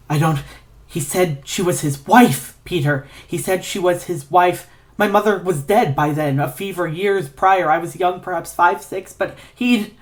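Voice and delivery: a frightened man forcing out a memory; shaken, frightened. Acted. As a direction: voice high and trembling with fear. Ignatius recounts trauma, shaken.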